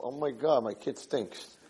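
very soft, private aside; mumbling to himself. Acted. Father to himself after fake praise, mumbling. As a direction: drop to a barely audible mumble. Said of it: "He's, like, mumbling to himself".

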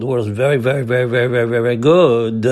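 VERY repeated in a rolling run, landing on a long GOOD; piled-up emphasis. Acted. Rabbi showing how it was said, piled-up emphasis. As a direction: chain each "very" together, then hit "good". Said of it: "That's the way he said it".

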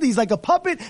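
ordinary delivery

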